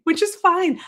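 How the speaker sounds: clipped sarcastic fine; mock mad. Real, not acted. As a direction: say fine like you're secretly annoyed. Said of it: "I say it like I'm mad".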